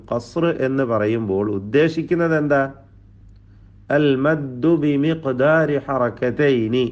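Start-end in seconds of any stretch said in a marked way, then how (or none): 4.0-6.8 slow, measured Arabic definition read like Quran recitation. Shown as a demonstration. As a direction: draw out each Arabic word carefully, slowly. Quoting Arabic tajweed definition. (പതുക്കെ, അറബി പാരായണ ശൈലിയിൽ)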